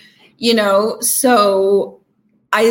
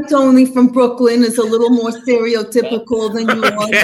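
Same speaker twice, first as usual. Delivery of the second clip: thick Brooklyn accent, a bit higher; 4 semitones higher, 4 dB louder than usual. Shown as a demonstration. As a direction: lay on the Brooklyn accent for drama. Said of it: "could you do a, a Brooklyn accent for me".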